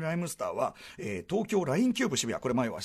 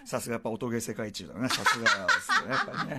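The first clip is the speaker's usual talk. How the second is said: laughing; 4 semitones lower than usual. Real, not acted. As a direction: laugh through the words. Laughing praise of bandmate.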